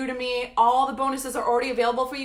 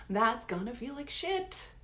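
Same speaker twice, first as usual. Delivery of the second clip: softer and slowed right down, letting it sink in; slow and quiet; 7 dB quieter, slower than usual. Shown as a demonstration. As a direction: drop the volume and drag the words out. Repeats the line twice.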